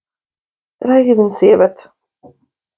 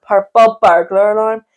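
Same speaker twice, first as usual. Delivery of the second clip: mock Scottish accent. Shown as a demonstration. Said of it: "got her to say it".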